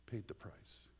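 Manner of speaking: hushed reverent whisper. Real, not acted. Preacher telling congregation of Christ's sacrifice, whispered. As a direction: breathe it out reverently. Solemn climax.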